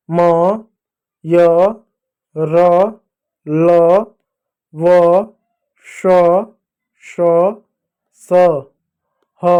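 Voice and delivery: each letter alone, drawn out, with pauses between; deliberate model reading of isolated letters; alphabet pronunciation demo. Shown as a demonstration. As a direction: recite Hindi consonants one at a time. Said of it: "ये इस तरीके से इनका pronunciation होता है".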